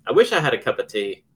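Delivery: lightly put-on English accent. Host tests how English it sounds, English accent. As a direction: try a touch of English accent. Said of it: "does it sound very English to me".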